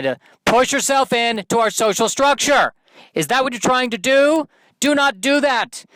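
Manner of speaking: bossy alpha bird laying down the law; larger bird lecturing. Acted. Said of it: "the larger bird is saying".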